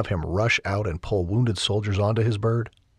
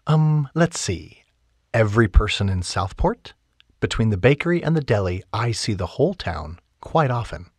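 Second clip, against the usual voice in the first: lightly voiced heroine; 3 semitones higher, 4 dB louder than usual.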